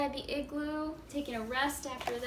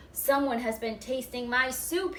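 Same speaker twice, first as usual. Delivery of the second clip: mild roar; 6 dB louder than usual. Acted. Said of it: "he roared".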